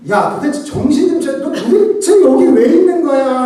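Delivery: high, loud furious rebuke; angry scolding. Shown as a demonstration. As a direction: yell at him to snap out of it. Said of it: "라고 말했을까요". (높고 크게 버럭 화내며 꾸짖듯이)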